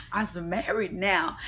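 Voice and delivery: giggling through a mock brag; laughing boast. Kenya laughing as she brags to the girls about marrying. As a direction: laugh while bragging about being married. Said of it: "And I said".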